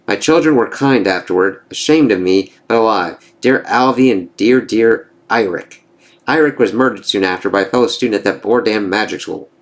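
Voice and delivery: a hint of a scornful sorceress; mildly acted mocking enchantress; lightly voiced bitter enchantress. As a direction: taunt him as the wronged enchantress.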